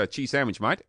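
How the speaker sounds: everyday English accent, poshness dropped; English accent without poshness. Shown as a demonstration. Guest showing the posh effect vanish, casual English accent. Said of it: "it's gone immediately".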